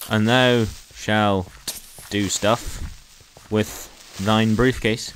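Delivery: slow, spaced-out pronouncement; mock-biblical proclamation. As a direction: proclaim it grandly with long pauses. Mock archaic proclamation, copying friend.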